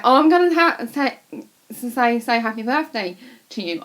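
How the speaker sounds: loud, high mock announcement, easing off; imitating teasing uncle. Uncle teasing at a comedy show, imitated excitedly. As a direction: act out an uncle piping up.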